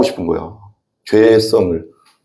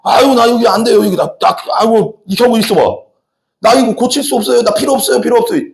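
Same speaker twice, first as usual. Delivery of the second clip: higher, moaning refusal of the doctor; whiny sick patient; 6 semitones higher than usual. Retold or imitated. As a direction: play a stubborn patient groaning he can't be cured. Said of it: "이 아픈 사람이". (높은 목소리로 징징대는 환자 흉내)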